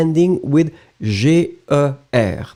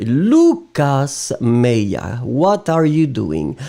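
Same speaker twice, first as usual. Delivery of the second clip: slow, drawn-out name, then a measured reproach; reproving a student; much slower than usual. Real, not acted. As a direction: call the offender out slowly and deliberately. Calls out a misbehaving student.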